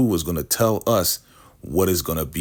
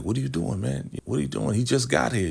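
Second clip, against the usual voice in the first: higher, worried mock pleading; alarmed dad calling after his son; panicked protest; 7 semitones higher, 4 dB quieter, faster than usual. Andrew objecting as his son is led away, high panic.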